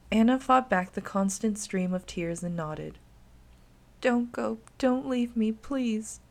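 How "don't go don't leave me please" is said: put-on pleading child. Anna begs Erica to stay.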